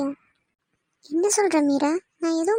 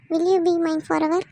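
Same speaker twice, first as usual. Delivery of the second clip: slow proposal; much slower than usual. Acted. Arun proposes to Meera.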